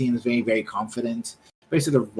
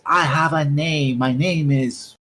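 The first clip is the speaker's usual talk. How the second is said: slow, slightly higher mock indignation; a hint of a proud woman insisting; indignant woman; 4 semitones higher, 4 dB louder, slower than usual. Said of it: "and she says".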